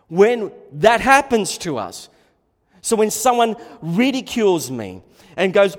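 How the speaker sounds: loud, high, slowing fiery sermon climb; full-force preaching. Acted. Preacher urging the church to keep preaching, loud and fiery. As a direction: thunder it at the congregation like a revival preacher.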